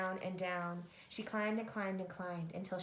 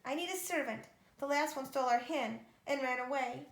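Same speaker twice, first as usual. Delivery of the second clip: loud and much higher, calling at the door; giantess roaring; 5 semitones higher, 6 dB louder than usual. A narrator's reading. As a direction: bellow it out, then settle. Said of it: "she roared".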